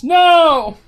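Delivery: high, drawn-out "no"; mock outraged cry. Streamer reacting to a suggestion, mock-horrified cry.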